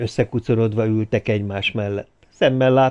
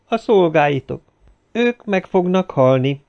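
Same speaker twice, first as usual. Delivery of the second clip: lightly acted ominous pronouncement; ominous girl; 7 semitones higher, 4 dB louder than usual. A narrator's reading. Girl foretells deaths.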